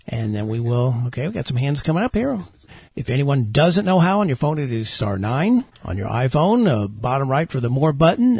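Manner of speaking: lively radio announcer delivery; auctioneer voice. Real, not acted. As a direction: sell it like an auctioneer. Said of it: "you sound like an auctioneer".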